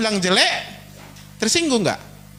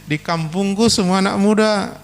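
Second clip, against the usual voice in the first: boastful reply; 4 semitones lower than usual. Acted. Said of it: "bilang jelek ini".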